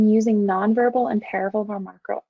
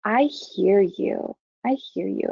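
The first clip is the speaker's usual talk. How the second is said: slow reassuring; slower than usual. Shown as a demonstration. Counsellor validating an upset person's concerns. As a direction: linger on each word to reassure. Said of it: "You're saying".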